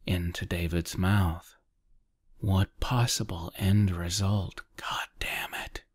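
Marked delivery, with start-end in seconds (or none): 4.8-5.8 soft, near-whispered aside; muttered curse. A narrator's reading. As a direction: curse under the breath. Exasperated interjection within his thoughts.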